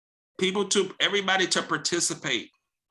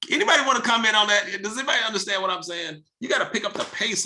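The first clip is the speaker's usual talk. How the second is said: energetic push; 6 semitones higher, faster than usual. Acted. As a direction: fire it at them like a pep talk. Coach pushing team to speak.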